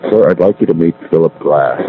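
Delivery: loud, full-voiced introduction. Clerk introducing a customer to his manager, in a full voice. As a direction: imitate a clerk announcing someone in full voice. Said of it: "he said it in a full voice".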